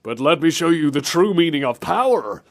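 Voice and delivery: mock heroic proclamation; lightly hammed-up motivational hero; Simon Belmont. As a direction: declare it like a cartoon champion. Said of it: "he seems so upbeat and cheery".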